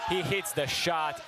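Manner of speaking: excited shout. Real, not acted. Clutch shot called live.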